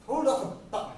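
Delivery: very loud, high command; sharp shout. Acted. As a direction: bark it to halt him. Friend cuts off the rant.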